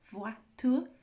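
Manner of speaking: "voiture" with OI sounded as "wa", vwa-ture. Shown as a demonstration. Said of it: "it makes a wa sound".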